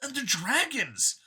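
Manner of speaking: android copy, eager. A narrator's reading. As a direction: sell it like a proud believer. Copy rants on.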